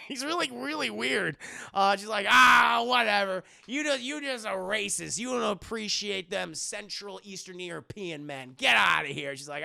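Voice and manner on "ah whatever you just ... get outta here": loud mocking brush-off; loud dismissive. Lucy scoffs at Mina, loud and dismissive. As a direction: wave her off with a loud scoff.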